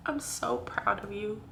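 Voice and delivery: soft, slow self-encouragement; tender. Real, not acted. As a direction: comfort yourself gently. Speaking tenderly to herself.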